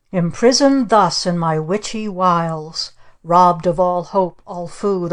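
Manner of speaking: slow, incantation reading; a touch of a mock witch reciting; witchy poem. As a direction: chant the curse poem. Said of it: "She read another poem".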